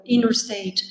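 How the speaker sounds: "inner state" run together, the t of "inter" dropped; swallowed syllables. Shown as a demonstration. Teacher mimicking natives who eat syllables, "inner state" with sounds dropped. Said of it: "comem palavras ou sílabas".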